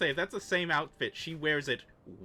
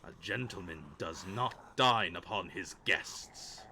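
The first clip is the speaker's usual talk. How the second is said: zombie voice; 5 semitones lower, slower than usual. Acted. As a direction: proclaim like a zombie lord. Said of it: "drop the zombie voice now".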